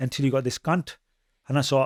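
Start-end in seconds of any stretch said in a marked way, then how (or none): none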